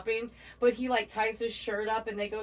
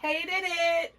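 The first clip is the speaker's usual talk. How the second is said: grumpy clown voice; 7 semitones higher than usual. Retold or imitated. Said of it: "Me and Shonda do that in class".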